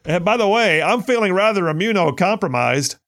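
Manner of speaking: mock a pompous student; lightly voiced egghead snob; mock egghead protester. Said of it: "Only an egghead Princeton protester".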